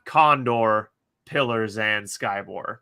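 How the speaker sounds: slow, grand recital of the title. Pretend. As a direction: roll out the full title with ceremony.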